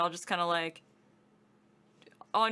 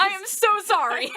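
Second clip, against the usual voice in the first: laughing apology; 13 semitones higher, 9 dB louder than usual. Retold or imitated.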